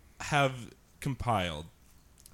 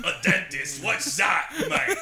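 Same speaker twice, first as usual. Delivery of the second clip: put-on higher, laughing British accent; teasing British caricature; mock British; 8 semitones higher, 4 dB louder, slower than usual. Mock British joke quote.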